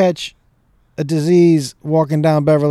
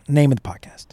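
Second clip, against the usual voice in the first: whispered; 3 dB quieter than usual. Real, not acted. Breath held for the hiccups.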